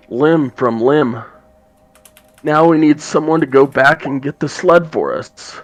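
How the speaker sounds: high, loud raspy dwarf woman; Haruna's raspy voice. Acted. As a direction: rasp it out as a gruff dwarf. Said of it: "in a raspy voice".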